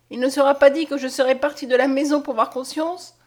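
loud, high, defiant declaration; impassioned outcry. A narrator's reading. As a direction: vow it with mounting insistence. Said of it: "s'écria Mariette".

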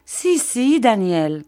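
put-on high plaintive old woman; plaintive old widow. A narrator's reading. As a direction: moan it like a self-pitying widow. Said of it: "dit mistress Gummidge".

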